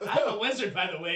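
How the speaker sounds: lightly mocking, with a laugh; teasing imitation. Game master mimicking the wizard player's line, teasingly. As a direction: tease by echoing a pick-up line. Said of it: "Is that how you talk".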